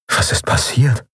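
breathy unvoiced inner question; whispered thought. Dazed Miko asking himself after waking.

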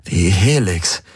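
understated growl through pain. A narrator's reading. Galen names what torments him, pained growl. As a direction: growl it with a throbbing head. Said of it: "knurrte er".

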